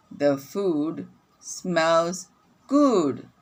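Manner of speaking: slow reading with good lifted; slow read-along. Shown as a demonstration. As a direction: read slowly for children to follow. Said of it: "let's read together again".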